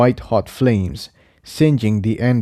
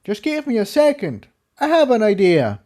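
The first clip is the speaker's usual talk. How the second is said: much higher voiced stallion, hurried; Jigsaw; 11 semitones higher than usual. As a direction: ask for a moment with a plan in mind. Jigsaw answering mid-fight.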